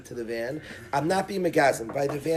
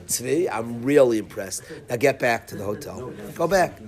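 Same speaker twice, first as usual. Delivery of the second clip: tougher; 4 semitones lower than usual. Retold or imitated. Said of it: "gets a little tougher with Tzvi".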